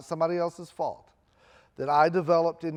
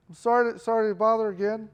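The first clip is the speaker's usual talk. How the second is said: higher apologetic student; 5 semitones higher, 4 dB louder than usual. Retold or imitated. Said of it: "I'm like".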